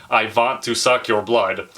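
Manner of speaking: slow mock Hungarian accent; drawn-out Hungarian-accented vampire line; Dracula imitation. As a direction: quote it like a stock Hungarian vampire. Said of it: "saying it with his Hungarian accent".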